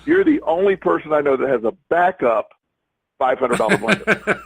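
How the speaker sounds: quoting a friend's laughing tease. Retold or imitated. Friend teasing the speaker about the backup blender, laughing. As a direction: laugh creeping in towards the end. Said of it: "And, and he's laughing".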